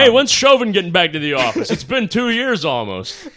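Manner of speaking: high, loud, sing-song; sing-song mock voice. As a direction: lilt it like a cheery host. Continuing the mock impression.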